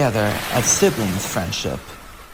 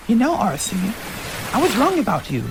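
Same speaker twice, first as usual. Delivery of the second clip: tender confession; 8 semitones higher than usual. Acted. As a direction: admit you misjudged her. Elita confessing at sunset.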